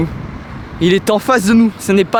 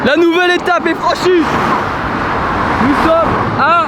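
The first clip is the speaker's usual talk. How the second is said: announcer voice; 11 semitones higher than usual. Acted. Announcing the stage reached.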